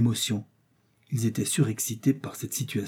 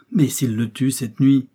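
slow, louder anxious outburst; agitated alarm; 3 semitones higher, 7 dB louder, slower than usual. A narrator's reading. Joe fears for the prisoner, agitated. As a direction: blurt the fear out loudly, drawn out. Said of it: "s'écria Joe palpitant".

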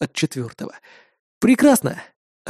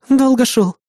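smiling; 7 semitones higher than usual. A narrator's reading. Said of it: "улыбнувшись, ответила Кри".

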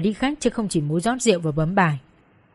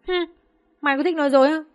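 menacing manager; 7 semitones higher, faster than usual. Acted. Manager interrogating the girl.

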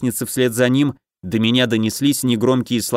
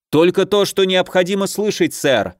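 barking soldier; 7 semitones higher than usual. A narrator's reading. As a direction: snap it out like a drilled sergeant. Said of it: "гаркнул сержант".

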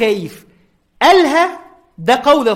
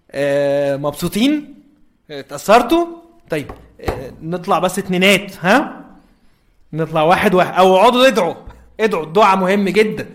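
breezy host; 3 semitones lower than usual. Retold or imitated. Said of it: "أنا قاعد دلوقتي".

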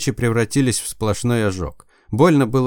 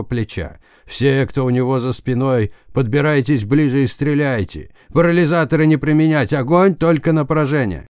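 commanding order. Acted. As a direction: bark orders to the troops. Commander orders over radio.

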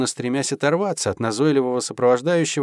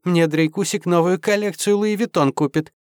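put-on high, sing-song valley girl chirp; mannered chirping; 6 semitones higher than usual. A narrator's reading. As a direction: chirp it like a spoiled girlfriend. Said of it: "радостно защебетала".

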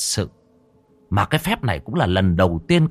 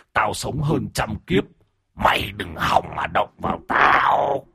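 taunting ghost. Acted. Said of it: "như thách thức".

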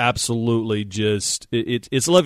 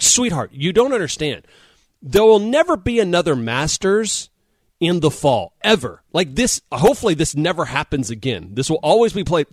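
higher-pitched mock-indignant plea; exasperated pleading; 5 semitones higher than usual. Husband to wife over a missed football, exasperated pleading. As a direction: plead your case, pitched up, emphatic. Retold protest to his wife.

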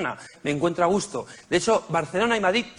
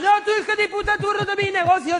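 vendor yelling. Retold or imitated. Comedian voicing the vendor cursing him for stepping on goods, higher mock yell. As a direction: shriek the insult like the furious vendor.

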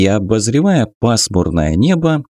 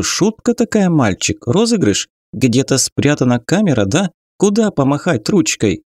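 irritated sarcastic; 5 semitones higher than usual. Acted. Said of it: "раздражённо уточнила".

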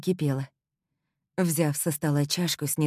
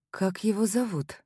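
suspicious; 5 semitones higher than usual. Acted. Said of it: "с подозрением спросила я".

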